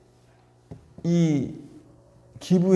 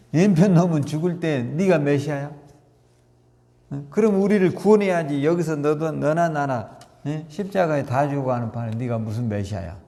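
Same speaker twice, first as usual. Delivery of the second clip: mocking sneer. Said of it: "비아냥거리고 조롱을 해요".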